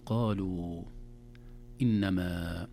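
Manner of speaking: قالوا and إنما apart, final vowels lengthened; إبراز المد. Shown as a demonstration. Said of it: "لاحظوا علامة المد". (قالوا، إنما مع إطالة الآخر)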